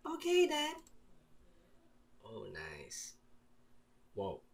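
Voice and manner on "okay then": very high put-on girl. Coaxed girl agrees to come out, girl voice. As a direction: lift it right up into falsetto.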